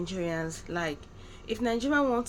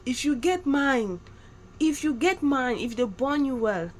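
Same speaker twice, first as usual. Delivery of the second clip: slow, louder mock Nigerian threat; hammed-up warning, drawn out; 3 semitones higher, 5 dB louder, slower than usual. Imitating Nigerians threatening someone, slow mock menace. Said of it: "if they want to threaten you".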